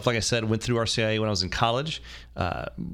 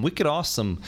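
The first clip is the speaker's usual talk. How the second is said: terrible Boston accent; 5 semitones higher than usual. Shown as a demonstration. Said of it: "that's a terrible Boston accent".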